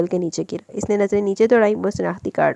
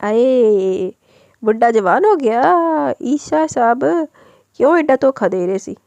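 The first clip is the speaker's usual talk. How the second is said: teasing aside; 3 semitones higher, slower than usual. Real, not acted. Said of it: "मेरी एक listener को".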